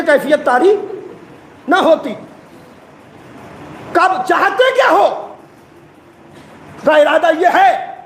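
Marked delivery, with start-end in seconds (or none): 3.9-5.3 dramatic cry. Acted. Preacher voices dramatic question.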